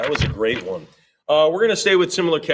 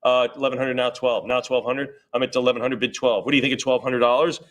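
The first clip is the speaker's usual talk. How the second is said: brisk auctioneer chant of numbers; auction bid calling. Acted. Auctioneer calling bids to the room, rhythmic chant. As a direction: keep the bids rolling.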